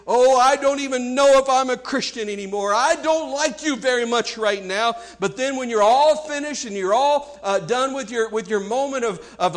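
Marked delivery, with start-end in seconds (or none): 0.1-4.9 lashing out, a bit higher and louder; half-yell a pretend complaint at God; mild acted yell. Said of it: "just yell and cry and say".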